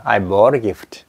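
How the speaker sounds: bought a gift very slowly, bought a becomes bora; linked flap. Shown as a demonstration. Teacher models I bought a gift at a crawl. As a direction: let the t flap into r before a. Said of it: "발음이 어떻게 될까".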